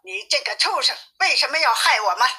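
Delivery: understated angry accusation, hurrying at the end; mild scolding. Acted. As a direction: scold the poisoner without raising the volume. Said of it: "骂道". (略带怒气地责骂)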